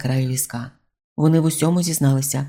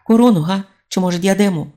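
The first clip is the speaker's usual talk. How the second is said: louder, higher hopeful call; eager guessing; 5 semitones higher, 5 dB louder, faster than usual. A narrator's reading.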